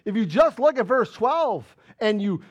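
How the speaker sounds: insistent, stretched-out sermon delivery; emphatic preaching. Real, not acted. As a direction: hammer the key phrases home.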